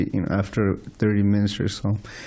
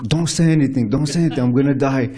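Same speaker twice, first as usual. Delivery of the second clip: higher-pitched, urgent imitation of an absorbed gamer; urgent gamer plea; 4 semitones higher, faster than usual. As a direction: fend someone off mid-game, pitched up. Gamer begging not to be interrupted.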